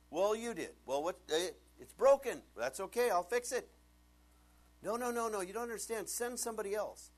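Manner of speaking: high, loud pleading Moses; whiny Moses. Acted. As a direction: beg out of it like a scared kid.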